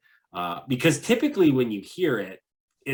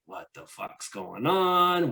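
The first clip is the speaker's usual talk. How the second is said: suspicious local; 6 semitones higher, slower than usual. Retold or imitated. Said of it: "this guy's like".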